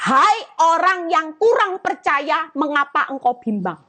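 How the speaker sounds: a disappointed master scolding his disciple; Jesus rebuking. Acted. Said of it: "ini kata-kata yang diucapkan Tuhan".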